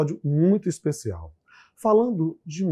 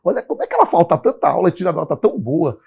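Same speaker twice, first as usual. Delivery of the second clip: teasing; 5 semitones higher, 6 dB louder, faster than usual. Retold or imitated. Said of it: "dizendo assim".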